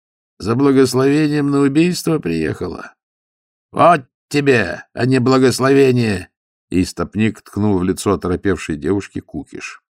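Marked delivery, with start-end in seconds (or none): 0.0-6.3 rough mockery. A narrator's reading. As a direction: jeer at her and refuse. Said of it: "грубо спросил он".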